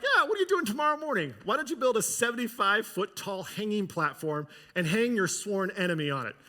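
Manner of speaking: a lightly voiced scheming wife tossing off a plan; mock wife's suggestion. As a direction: toss it off like a casual idea. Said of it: "Zeresh is like".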